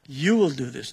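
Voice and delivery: You punched out, the rest falling away; stress on YOU. Shown as a demonstration. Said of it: "Notice, notice that".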